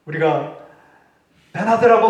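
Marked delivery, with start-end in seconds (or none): 1.5-2.1 mock shout. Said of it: "소리치고 잔소리하면은".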